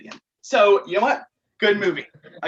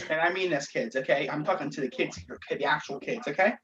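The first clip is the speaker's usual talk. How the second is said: mock serious warning; 4 semitones lower, 6 dB quieter than usual.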